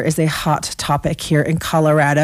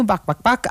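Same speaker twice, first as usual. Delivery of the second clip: chicken clucks; 2 semitones higher than usual. Shown as a demonstration. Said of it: "'cause there's chickens".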